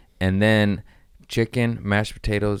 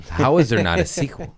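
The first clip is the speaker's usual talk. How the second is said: mock indignant, pushed higher; louder, higher outraged repeat; 4 semitones higher, 4 dB louder than usual. Shown as a demonstration. Fan demanding a sequel, mock outrage.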